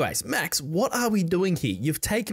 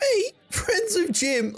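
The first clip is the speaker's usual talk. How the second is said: indignant surprise; 13 semitones higher, slower than usual. Acted. Offended at being called Jim's friend.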